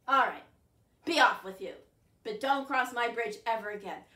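troll refusing to let the goat cross; gruff troll. Acted. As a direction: block the way as a bossy troll.

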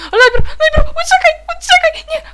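very high loud frantic shriek; panicked shriek. Real, not acted. Gamer shrieking at herself to run from danger. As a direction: shriek it while running away.

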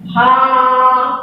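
भालू with a slow, sung-out long ऊ. Shown as a demonstration. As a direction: stretch the ऊ of भालू. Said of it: "मुंह खोला ना आपकी मात्रा के साथ".

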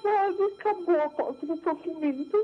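high, slow voice breaking with happy tears; overwhelmed with joy, near crying; tearful joy. Real, not acted. Testifying to the apostle, crying with joy. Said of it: "eu tô feliz demais".

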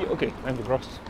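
jolted on a bumpy ride; on a bumpy road. Real, not acted. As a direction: voice shaken by the bumps.

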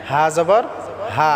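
হা as an easy breath h without throat pressure; careful model of light "haa", paused before the last হা; relaxed throat on হা; correct light pronunciation. Shown as a demonstration. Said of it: "এইরকম উচ্চারণ করতে হবে".

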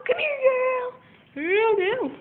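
high sweet voice for the dog; high pet voice. Real, not acted. Talking to the dog.

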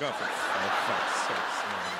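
slow, low, fed-up groan of a line; exasperated. Retold or imitated. Comic despairing at the shopkeeper's Hola. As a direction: drag it out in disbelief. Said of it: "I'm like".

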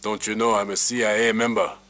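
a hint of a smug official; CIA agent. Agent confronts protester.

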